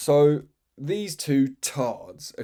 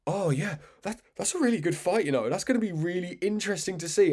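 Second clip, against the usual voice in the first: mock pundit; 6 semitones higher than usual. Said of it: "He's like".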